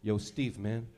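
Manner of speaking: mope to your bro, half laughing; guy whining to buddy. Retold or imitated. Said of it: "call your boy here, be like".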